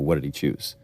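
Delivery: ordinary delivery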